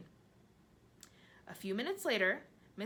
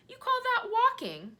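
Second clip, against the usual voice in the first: much higher, louder, slow mocking cry; scornful cry; 11 dB louder than usual. A narrator's reading. Centipede cries out, mocking the earthworm, loud and high. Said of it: "cried the centipede".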